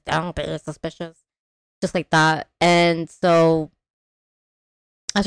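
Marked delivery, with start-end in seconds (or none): 0.1-1.2 quiet meme quote. Retold or imitated. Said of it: "that TikTok, that meme".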